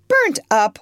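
loud, high disbelief; incredulous. Acted. Aunt doubting the girl's story, loud and high. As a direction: throw it back in disbelief.

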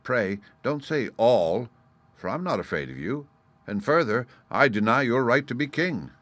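lightly scornful gnat, measured pace; disdainful. Acted. Gnat defying the lion's right to be king, disdainful. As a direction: look down on the listener as you refuse. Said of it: "cried the gnat disdainfully".

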